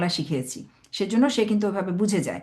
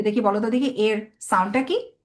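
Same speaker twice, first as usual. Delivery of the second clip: put-on patient question to a small child; slow coaxing question to a child. Shown as a demonstration. Parent asks child the sound, slow and patient. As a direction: slowly draw out এর সাউন্ডটা কি with a rise. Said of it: "প্রথমে হয়তো বললেন যে".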